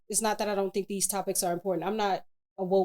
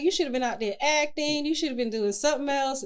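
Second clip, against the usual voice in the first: chiding friends; 5 semitones higher, 3 dB louder than usual. Retold or imitated. Voices others scolding her career choice.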